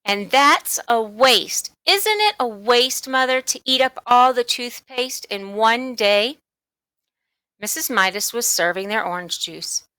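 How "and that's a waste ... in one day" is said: lightly voiced girl, higher and indignant; a hint of a whiny tattletale; tattling little sister. Sister complaining to mother about her brother, indignant.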